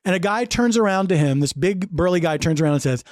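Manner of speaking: ordinary talk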